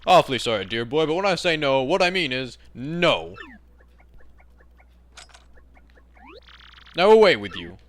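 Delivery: stuffy English seadog, emphatic refusal; hammed-up admiral sending them packing; firm old British sailor. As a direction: dismiss them with pompous British bluster.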